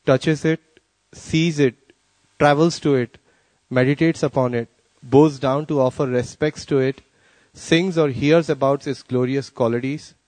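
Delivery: measured reading, pausing after each phrase. Real, not acted. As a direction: read it out carefully, phrase by phrase. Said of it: "I'll read it slowly".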